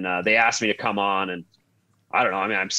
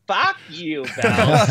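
high-pitched mock snap at the strength coach; Phil Kessel voice; 10 semitones higher, 5 dB louder, much slower than usual. Phil tells the strength coach off, high mock voice. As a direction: squeak it out like an indignant Phil. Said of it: "make sure you do his voice".

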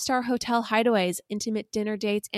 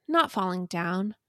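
dramatic restatement. Acted. Host restates the love text for audience, dramatic reading. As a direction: perform the text once more for listeners. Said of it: "I'm gonna restate for the audience".

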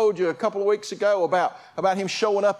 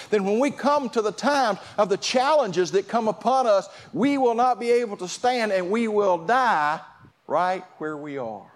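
urgent preaching; 4 semitones higher than usual. Acted. Urgent warning to congregation.

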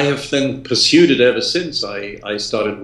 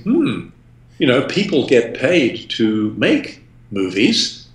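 mock eureka; 4 semitones higher than usual. Retold teenage eureka thought.

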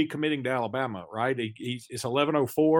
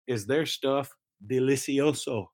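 mock Italian. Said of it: "I'm throwing in some Italian".

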